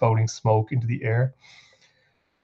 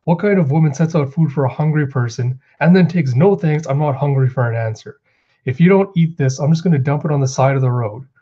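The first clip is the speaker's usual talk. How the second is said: mock angry scolding; 3 semitones higher than usual. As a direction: act out an indignant scolding, pitched up. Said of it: "Osuru gets all mad".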